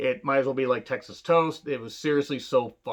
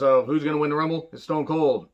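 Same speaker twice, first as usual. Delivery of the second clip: lightly imitated wrestler promo, a touch quicker at the start; a mild hint of a hyped-up Stone Cold rant; fired up promo; 3 semitones higher than usual. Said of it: "he does a really fired up promo".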